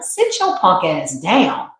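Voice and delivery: slow, firm put-down; lightly voiced, a mild stern scold. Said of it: "This is how my higher self talks".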